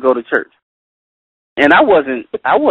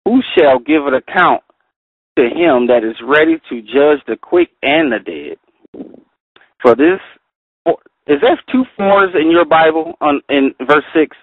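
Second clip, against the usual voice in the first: scripture reading. Acted. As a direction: read each phrase out carefully. Reads Bible verses aloud.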